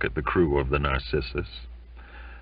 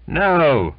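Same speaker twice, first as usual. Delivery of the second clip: a hint of a maudlin drunk insisting; loud first no, then slow and maudlin; maudlin insistence; 6 semitones higher, 5 dB louder, much slower than usual. Drunk sailor insists to Archie, lightly maudlin. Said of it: "insisted Belfast, lurching about, and in a maudlin tone".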